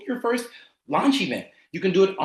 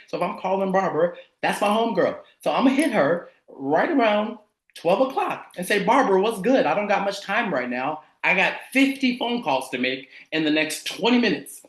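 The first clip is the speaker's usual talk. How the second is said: loose, familiar homegirl phone manner; talking like himself. Shown as a demonstration. Coach shows calling his homegirl Barbara, talking like himself. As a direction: talk casually, like hitting up a close friend. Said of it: "now I'm gonna talk like me".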